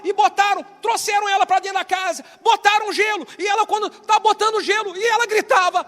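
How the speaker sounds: loud excited retelling. Acted.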